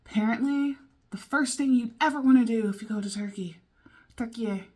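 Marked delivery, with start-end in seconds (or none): none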